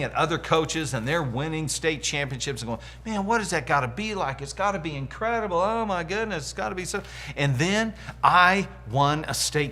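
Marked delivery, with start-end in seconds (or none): 3.1-7.0 higher-pitched, awed daydreaming; acted wistful wonder. Acting out his past envious wonder.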